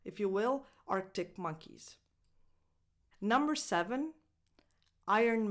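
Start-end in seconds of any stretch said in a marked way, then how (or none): 0.9-2.0 "Arctic Monkeys", first C of the first word barely released; near glottal stop. Shown as a demonstration. Teacher modelling the middle option, near glottal stop. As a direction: swallow the K in the band name softly. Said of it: "almost like a glottal stop".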